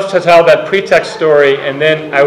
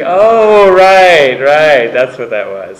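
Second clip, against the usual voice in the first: dawning realization; 4 dB louder, much slower than usual. Retold or imitated.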